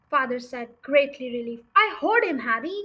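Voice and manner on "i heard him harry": high, loud, mildly panicked cry; shrieked. Acted. Mother still quaking, insisting to her husband, mild shriek. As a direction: insist in a raised, frightened voice. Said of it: "the mother shrieked".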